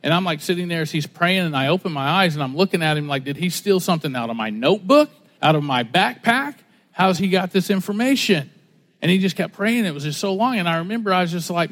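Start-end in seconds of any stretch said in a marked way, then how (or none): 3.2-8.5 mock disbelief, questions rising at the end; incredulous. Preacher recalls hearing his secrets prayed aloud, incredulous. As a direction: retell it as baffled suspicion.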